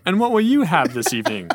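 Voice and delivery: lightly formal, lilting waiter voice. Acted. Waiter taking an order at the table, mock-formal. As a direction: ask it with mock polite flourish. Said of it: "the waiter comes to the table".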